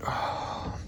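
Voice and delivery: soft whispered dread; wry whisper. Real, not acted. Angler about to unhook a toothy pike, wry whisper. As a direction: mutter it under your breath, bracing.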